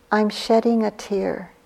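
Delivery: lightly imitated Filipino accent; a hint of Mom's Filipino accent; mother's Filipino accent. Daughter quoting her tearful mother, light Filipino accent. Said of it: "in her little accent, she said".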